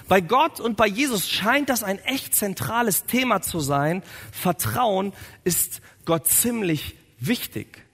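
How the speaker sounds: ordinary delivery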